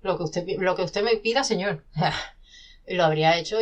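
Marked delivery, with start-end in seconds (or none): 0.0-1.8 eager, loud fawning yes-sir; mock servile. Author playing a servile writer to an editor, hammed-up grovelling. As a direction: grovel to the publisher in jest.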